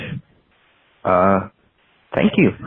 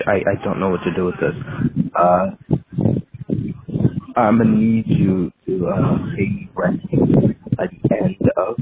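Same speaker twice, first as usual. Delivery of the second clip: cold greedy landlord. Pretend. No, but seriously.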